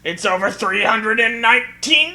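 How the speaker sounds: slow shouted boast; slow hammed-up shout; mock power-level shout. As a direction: yell it like a scouter reading.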